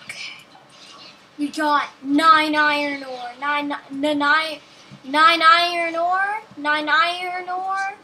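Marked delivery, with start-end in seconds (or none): 1.4-8.0 loud mock African accent, rising at the end; put-on "African" accent. Player announcing nine iron ore, in mock African accent. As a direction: call it out in a badly faked African accent. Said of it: "That's how we say it in the country of".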